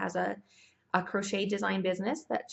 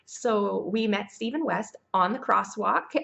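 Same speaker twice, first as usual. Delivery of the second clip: laughing; 5 dB louder, slower than usual. Real, not acted. Laughing recalling meeting.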